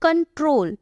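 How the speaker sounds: कंट्रोल opening on a hard "k"; model pronunciation. Shown as a demonstration. Teacher showing C as "k", careful model word. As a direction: sound out कंट्रोल clearly in two parts. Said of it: "कंट्रोल बोल रही हूँ".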